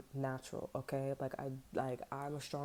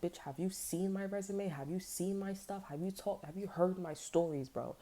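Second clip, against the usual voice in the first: higher-pitched, affronted challenge; sassy imitated comeback, raised pitch; indignant retort; 5 semitones higher than usual. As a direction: challenge them with mock outrage, pitched up. Acted retort to doubting mothers.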